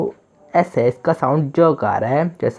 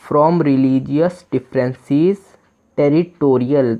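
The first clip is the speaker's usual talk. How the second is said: English read out very slowly, word by word; teacher dictating a sentence; slow reading aloud; much slower than usual. Shown as a demonstration. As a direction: read it slowly so learners can follow.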